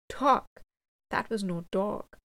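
sudden loud outburst on Dog; cutting in. A narrator's reading. Frightened soldier interrupts the officer, loud retort. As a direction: blurt it out to interrupt. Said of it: "cut in the man who had exhibited such fear".

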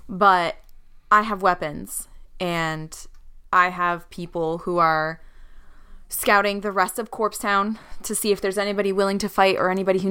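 in character. Acted. Player voices her character.

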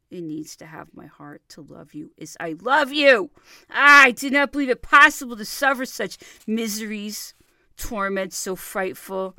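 loud, rising cry of despair; anguished outcry. Acted. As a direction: cry out the suffering. Lover's anguished outpouring.

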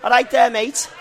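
loud, high Liverpool greeting; scratchy Scouse accent. Shown as a demonstration. Pub owner demonstrating for learners, Scouse accent. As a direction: call it out in throaty Scouse. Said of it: "very scratchy from the back of the throat".

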